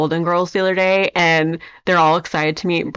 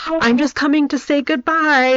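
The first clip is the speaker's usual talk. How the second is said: dog character voice; 8 semitones higher than usual. Retold or imitated. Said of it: "he's like".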